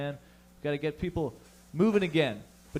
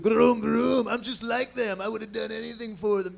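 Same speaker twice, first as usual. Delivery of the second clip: mock dopey redneck biker; 6 semitones higher, 3 dB louder than usual. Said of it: "they're just like".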